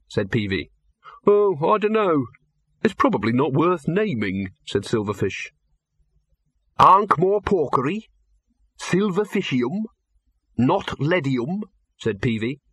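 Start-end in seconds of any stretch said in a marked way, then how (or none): 1.3-4.5 Silverfish, dismissive. Acted. Silverfish voiced. 6.8-11.6 Peavy, teasing. Acted. Peavy suggesting names.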